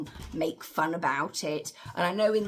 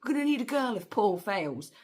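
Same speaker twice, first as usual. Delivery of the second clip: mock panic; 7 semitones higher, 4 dB louder than usual. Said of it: "Jessica panics and goes".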